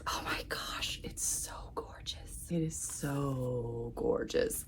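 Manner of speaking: soft breathy whisper of wonder; hushed gasp at the pretty pages; awed whisper. Real, not acted. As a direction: whisper it like it's too precious to say aloud. Awed by the book's pretty inside.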